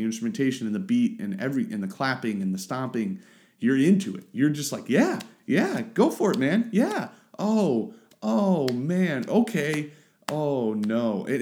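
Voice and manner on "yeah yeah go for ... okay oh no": high-pitched excited whoop that sinks to dismay; excited cheering. Pretend. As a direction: cheer the band on with glee. Imitating excited listener reaction.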